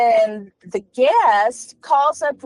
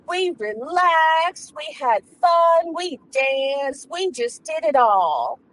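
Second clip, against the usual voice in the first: a hint of a showy bragging lady, raised pitch; boastful lady friend; 4 semitones higher than usual. Lady at tea topping her friend's brag, lightly showy. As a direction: outdo her friend sweetly. Second woman boasting back.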